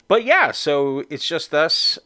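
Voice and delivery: whistling s on just and us; s that whistles through the teeth. Real, not acted. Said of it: "what was that whistle that I just made?".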